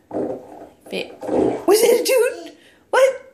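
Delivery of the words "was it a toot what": high, loud playful teasing. Real, not acted. Teasing toddler about a toot.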